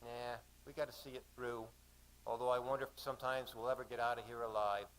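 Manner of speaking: understated Australian woman's voice; resigned answer with Aussie vowels; lightly acted Aussie speaker; Aussie accent. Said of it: "she said in an Aussie accent".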